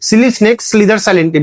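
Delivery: each word drawn out slowly; slow example read. Shown as a demonstration. Teacher reads the example slowly to show the t sounds. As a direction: spell out the alliteration slowly. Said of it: "तो एस, एस".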